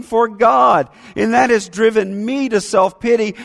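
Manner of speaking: shouted emphatic preaching. Real, not acted. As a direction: drive the point home with force.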